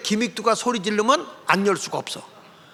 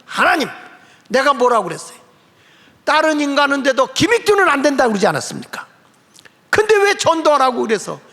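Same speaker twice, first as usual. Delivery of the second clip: higher, louder complaint thrown at God; angry protest; 4 semitones higher, 3 dB louder than usual. Retold or imitated. Preacher angrily protests to God, louder and higher. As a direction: rail at God in indignation. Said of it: "하나님 앞에 대드는 거예요".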